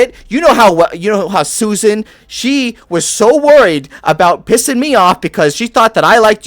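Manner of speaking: lightly voiced Bostonian barkeep, scolding; a hint of a Bostonian accent, telling him off. Halfling barkeep scolds Creed over his unpaid tab, lightly voiced Bostonian accent. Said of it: "I'm trying a Bostonian".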